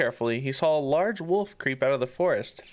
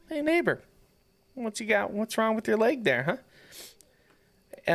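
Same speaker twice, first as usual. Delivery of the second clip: gruff shepherd voice; 8 semitones higher than usual. Acted.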